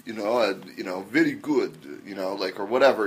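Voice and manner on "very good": hint of a Russian accent; bad Russian accent. Shown as a demonstration. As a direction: try a passing Russian accent. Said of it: "a Russian accent".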